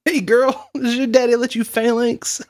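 high, teasing pickup line; cheesy pickup voice. Pretend. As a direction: flirt like a cheesy bro.

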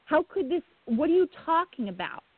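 a parent hearing the worst, pitch cracking upward; retold disbelief. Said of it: "I was screaming in my head".

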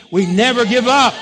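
loud, emphatic rallying cry; forceful preacher's shout; say it like you mean it. Shown as a demonstration. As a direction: belt it out with full conviction. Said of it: "say it like you mean it".

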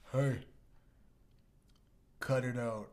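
lightly voiced Southern hero, simple scolding; hint of Southern accent. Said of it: "speaks in a southern accent".

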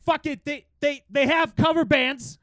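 over-the-top Midwest bro impression; Midwest accent. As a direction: ham up a shitty Midwest accent. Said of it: "very good I'm from the Midwest shitty accent".

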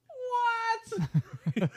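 high loud mock yell of a hard-of-hearing dad; dad shouting what in a packed theater; shouted what. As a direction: yell it like a deaf old man. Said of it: "he's like".

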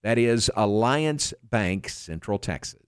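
upbeat sponsor read. Acted. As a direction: read the sponsor spot brightly. Live ad read by host.

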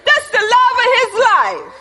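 rising excited praise; excited preaching. Real, not acted. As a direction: laugh it out with delight. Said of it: "He wasn't even ashamed to say that".

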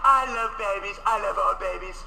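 put-on slowed, vague old-man mumble; a light, muddled take on Biden; mock Biden voice. Mocking the president's reply.

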